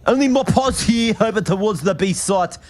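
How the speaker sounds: put-on Western Sydney brother-speak; put-on Western Sydney accent. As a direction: cast the match as a hectic Western Sydney lad. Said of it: "It might actually be your real accent".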